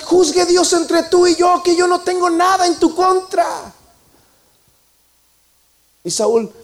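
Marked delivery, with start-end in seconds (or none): 0.0-3.7 David swears before God that he holds nothing against Saul; declaración solemne en voz alta; solemn declaration. Acted.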